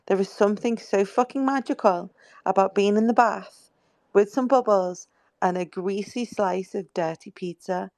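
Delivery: ordinary delivery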